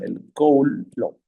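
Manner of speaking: drawn out slowly, stress on "Coulomb"; slow confirmation. Shown as a demonstration. Teacher confirms the answer to the class, slowly and clearly. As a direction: stretch "el Coulomb" so the class hears it. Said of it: "Muy bien".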